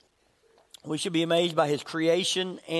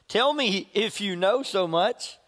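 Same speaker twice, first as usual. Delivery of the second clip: slow, mildly sarcastic challenge; a little sarcastic; slower than usual. Acted. God answering Job out of the whirlwind, mildly sarcastic. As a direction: draw it out with a touch of sarcasm. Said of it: "God being a little sarcastic there".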